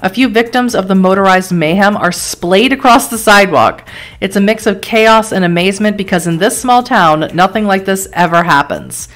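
measured dramatic game narration; story narration. A narrator's reading. Narrator setting a car crash scene for the player, story narration. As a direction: read it like a grim storyteller.

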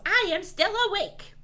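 high, loud, quick yell; mad yell. A narrator's reading. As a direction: yell it like a fed-up dragon. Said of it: "One mad dragon yells".

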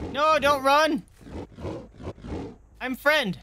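high-pitched, urgent friendly pig; pleading friendly pig. Pretend. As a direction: call out like an eager cartoon pig. Playing friendly pig calling fleeing survivors.

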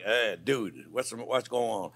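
low, slow, lightly voiced dude; a hint of a confused guest asking what's up; mock puzzled guest. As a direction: playfully imitate a baffled friend. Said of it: "Two time is like".

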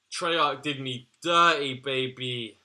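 loud mock-wailing complaint; loud lament. Real, not acted. Yelling at Treyarch over bad unlocks, loud lament. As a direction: cry it out to the developers.

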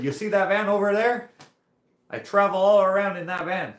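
put-on high, loud French-accented boast. French rider showing off his van, imitated French accent. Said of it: "he sounded like George Saint Pierre".

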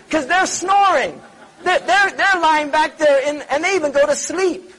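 laughing while telling a joke. Real, not acted. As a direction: let the laugh break into the words. Joking about sleeping pilots.

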